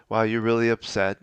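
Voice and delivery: even, steady and unhurried; calm acknowledging tone; calm reply. Shown as a demonstration. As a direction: say it calmly, no edge. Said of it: "I would just keep calm and say".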